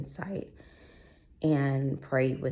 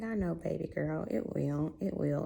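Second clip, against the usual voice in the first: soothing; 2 semitones higher than usual. Retold or imitated. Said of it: "I was like".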